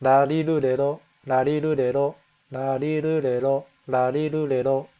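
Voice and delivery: larirurero with the tongue flicked off the teeth. Shown as a demonstration. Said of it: "flicking the tongue off the top of my teeth".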